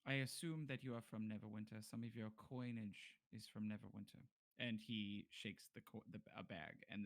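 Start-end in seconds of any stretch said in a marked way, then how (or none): 0.1-4.2 lightly voiced, formal bargainer; bargaining captive. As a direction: reason with them in careful, formal speech. Game master voices bargaining character.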